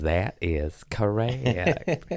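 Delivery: lightly voiced slow Chris Farley; a hint of Chris Farley, slow and drawn; Chris Farley impression. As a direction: drawl it out slowly like Farley. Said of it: "and he goes".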